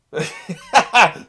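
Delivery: loud high gleeful laugh; burst of delighted laughter. Real, not acted. Viewer laughing loudly as backup arrives.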